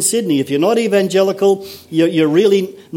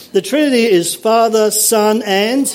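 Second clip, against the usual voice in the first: higher pitch, AND left hanging; leading prompt; 5 semitones higher than usual. Real, not acted. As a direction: prompt them like a class, open-ended on AND. Second try at prompting congregation.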